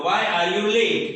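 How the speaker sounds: very slow, word-by-word classroom demo; very slow model question. Shown as a demonstration. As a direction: stretch every word for learners to copy. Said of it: "તો તમે કેમ મોડા છો?". (ખૂબ ધીમો, સ્પષ્ટ પ્રશ્ન)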